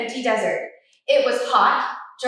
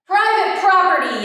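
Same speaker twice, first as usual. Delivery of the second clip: higher, louder cranky cactus yell; grumpy yell; 5 semitones higher, 5 dB louder than usual. Acted. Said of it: "yelled Hank".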